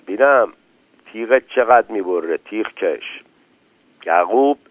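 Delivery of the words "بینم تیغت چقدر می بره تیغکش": softly with a smile, teasing; quiet, smiling. Acted. Borzu quietly teases the razor man with a smile. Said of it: "با لبخند خیلی آرام".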